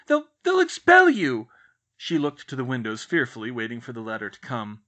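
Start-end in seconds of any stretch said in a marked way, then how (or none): 0.1-1.5 much higher and louder, stammering in panic; aunt panicking at magic at home, frightened. A narrator's reading. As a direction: trip over the words in fear. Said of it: "she stammered".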